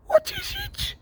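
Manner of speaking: very high, breathless frightened woman; terrified gasp. Acted. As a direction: gasp it out in terror. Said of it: "gasped Aunt Petunia".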